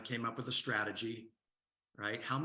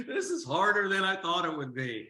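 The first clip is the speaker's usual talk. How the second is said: much higher and louder, exaggerated whiny kid; imitating frustrated granddaughter; 7 semitones higher, 7 dB louder than usual. Grandfather replaying his granddaughter's complaint, loud mock whine. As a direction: ham up the girl's frustration. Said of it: "she says".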